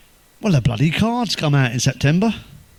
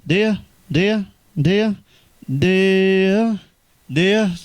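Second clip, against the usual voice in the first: mock dismay; 6 semitones higher, much slower than usual. Comic mock-sorrowful opener.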